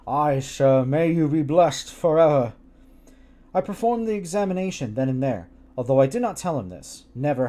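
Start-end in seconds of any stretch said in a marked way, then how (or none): 0.1-2.5 put-on a touch louder, solemn old man; a character's earnest blessing, read aloud. A narrator's reading. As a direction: bless her with clasped hands, gravely. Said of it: "He clasped his hands together".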